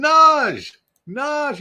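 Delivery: high, loud, delighted name call; excited greeting. Real, not acted. Streamer welcomes viewer who made his day, excited shout. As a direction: call out as a favorite friend walks in.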